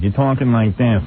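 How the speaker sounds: slow mimic of his unmanly talk; mocking timid talk. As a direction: lightly imitate a timid, dragging speaker. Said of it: "This is your way you talk".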